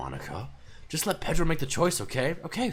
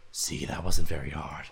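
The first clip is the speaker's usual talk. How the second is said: smug; 10 semitones lower than usual. Acted. Smug remark after others leave.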